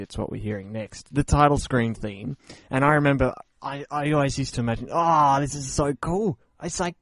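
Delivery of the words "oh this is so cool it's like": rising to a high, overjoyed squeal; squealing excitement. Pretend. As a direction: gush like a thrilled kid hearing rock on chips. Mock childhood excitement about chiptune.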